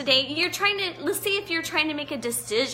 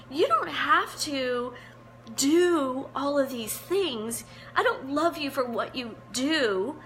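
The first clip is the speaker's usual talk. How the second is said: teary-eyed. Real, not acted. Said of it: "you can tell I'm a little teary-eyed".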